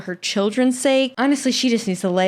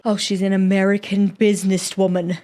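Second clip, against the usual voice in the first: lightly put-on British accent; 2 semitones lower than usual. Podcaster quips about a businesswoman, British accent. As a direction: say it as a mock-British aside. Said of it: "I said that in a British accent".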